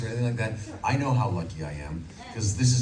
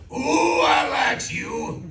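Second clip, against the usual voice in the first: slow, loud, higher cowboy bellow; Yosemite Sam; 6 semitones higher, 6 dB louder, much slower than usual. Shown as a demonstration. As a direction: bark it like a hot-headed cowboy. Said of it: "Yosemite Sam".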